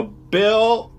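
high, loud call down the stairs; yelling downstairs. Pretend. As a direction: shout it down to Bill. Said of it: "I yell back down to the stairs".

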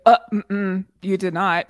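mock-scolding, loud cut-in; playful disapproving reproach; scolding disbelief. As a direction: call out a fib, half laughing. Reacting to a character's obvious lie.

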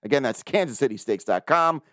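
brisk sponsor read, selling it; upbeat host ad read. Acted. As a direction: pitch the product like a radio spot. Host reads sponsor ads.

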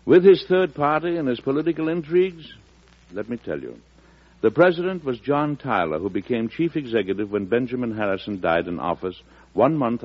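genial storyteller wrapping up the tale; host narration. Acted. Host revealing the president to listeners, genial storyteller. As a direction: tell it like a friendly history lesson.

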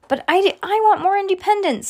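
put-on very high kid voice; high-pitched childish protest; protesting little brother. A narrator's reading. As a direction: object like a small child.

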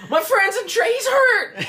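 very high, loud fake panic; comic high-pitched emergency wail; mock frantic plea. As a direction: cry out in hammed-up distress. Acting a frantic plea at the door.

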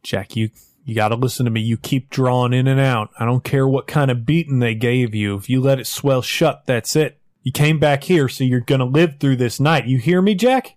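fast at first, rising to a loud plea; urgent pleading, building. Acted. West urges wounded Jack to live.

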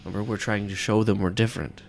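wife calming her husband, lightly voiced; she soothes him. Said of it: "you hear her ... pipe up".

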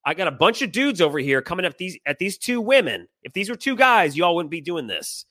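heated, quick-starting challenge; retold arguing. Husband scolds men confronting two women, retold arguing. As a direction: re-enact telling them off, pitch climbing. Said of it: "in the middle of this argument".

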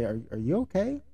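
calm adult voice that defuses an insult. Shown as a demonstration. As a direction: ask it gently and evenly. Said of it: "just stop in a calm voice".

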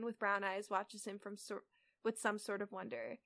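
even, measured read-aloud; story narration. A narrator's reading. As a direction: read the fanfic out steadily. Reads the fanfic aloud.

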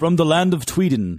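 mock Swedish accent saying Tweeden; hammy Swedish accent, Tweeden with a t. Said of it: "you should do a Swedish accent".

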